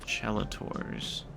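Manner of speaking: "Chelators" slowly, starting on a ch sound; variant pronunciation. Shown as a demonstration. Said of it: "ten different ways you could pronounce that".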